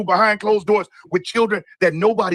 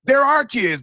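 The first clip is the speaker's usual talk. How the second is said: raised, shouted mock quote; mocking Biden quote; 4 semitones higher, slower than usual. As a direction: throw his words back in a raised voice. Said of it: "he say".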